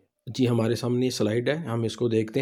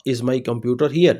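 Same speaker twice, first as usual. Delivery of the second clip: slow model reading; much slower than usual. Shown as a demonstration. Teacher models English slowly.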